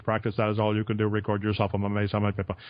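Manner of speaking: a lifeless read of your own book, no feeling; flat monotone read. Shown as a demonstration. Author showing the host a dull monotone read. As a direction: read it like bare words on a page. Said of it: "No, give it some feeling".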